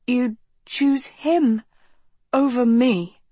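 rasping. A narrator's reading. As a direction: rasp it out, wounded. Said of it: "Philip rasped to Agatha".

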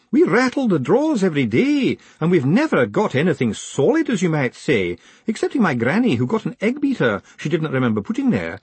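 high-pitched weeping clerk voice; tearful old postal clerk. Acted. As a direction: pour out her woes in a wail.

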